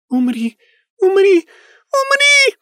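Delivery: from high to shrill and loud; rising ghost shriek. A narrator's reading. Ghost girl shrieking at the medium. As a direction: build each word into a shriek.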